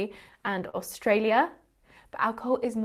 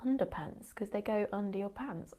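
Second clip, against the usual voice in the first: dawning realisation; 11 dB quieter than usual. Real, not acted. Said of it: "My whole life has been a lie".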